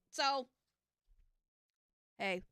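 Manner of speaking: normal talking voice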